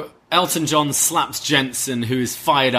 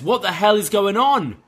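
high, whiny mock indignation; a lightly voiced angry wrestler; mock angry Roddy; 8 semitones higher than usual. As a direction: squeak out a petty complaint. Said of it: "and Roddy just says".

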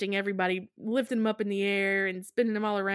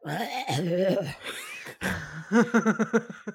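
zombie groan. Retold or imitated. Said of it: "being practically a zombie here".

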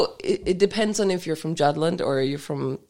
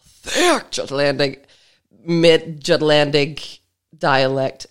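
put-on low, slow Jutlandic accent; thick Jutlandic dialect; 4 semitones lower, slower than usual. Co-host describing sister's dialect, imitated thick Jutlandic accent. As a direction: stretch the words in mock Jutlandic dialect. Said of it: "she has a thick".

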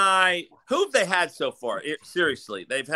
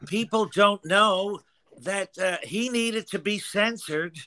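Dan Baker voice; 2 semitones higher than usual. Pretend. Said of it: "Give me a little Dan Baker".

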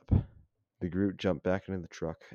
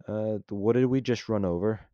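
frantic; 4 semitones higher, 7 dB louder than usual. Acted. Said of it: "asked Sly frantically".

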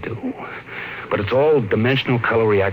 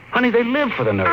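heated argument; 11 semitones higher, faster than usual. Acted. Couple argue over the nursery.

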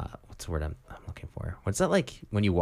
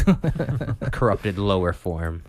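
mock lofty voice; much slower than usual. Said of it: "this derivative Elvish".

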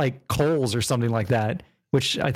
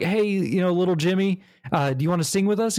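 high-pitched rock star voice; 6 semitones higher than usual. Retold or imitated. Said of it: "they're like".

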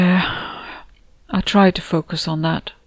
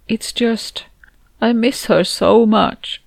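whispered start, then slow, higher and breaking; voice cracking; 5 semitones higher, slower than usual. Acted. Jackie admitting she misses Anna, slow and tearful. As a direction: hold back tears, then let the voice crack. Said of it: "My voice cracked".

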